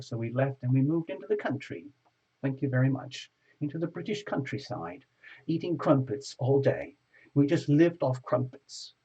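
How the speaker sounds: mock posh British accent, storytelling. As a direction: put on an English accent for the tale. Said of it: "I pride myself on that accent".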